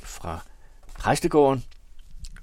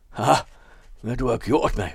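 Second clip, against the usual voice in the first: a scornful exclamation, a bit louder; bitter outburst; 4 semitones higher, 5 dB louder than usual. Acted. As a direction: burst out with a bitter laugh. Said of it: "udbrød han". (bitter udbrud)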